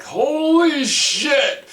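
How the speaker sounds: very high, slow, loud panicked cry; terrified shout. Retold or imitated. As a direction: bellow as the ship is about to hit. Station crew sees ship hitting.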